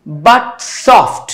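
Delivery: slow, measured reading of Shakespeare; poem recitation. Shown as a demonstration. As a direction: read each line slowly, marking the beat. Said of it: "लिखा है". (धीमा, लयबद्ध कविता पाठ)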